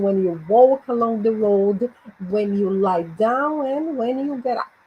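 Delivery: slow, measured verse reading; deliberate model reading in English; teacher's English read-aloud. Shown as a demonstration. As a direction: read the verse phrase by phrase for learners.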